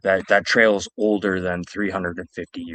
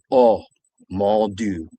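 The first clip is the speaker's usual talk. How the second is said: put-on old French lady; 5 dB louder, slower than usual. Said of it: "An old French lady".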